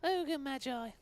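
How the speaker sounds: high goofy ogre voice; Ogre Magi voice. Pretend. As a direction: ham up a two-headed ogre. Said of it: "Can you do an Ogre Magi?".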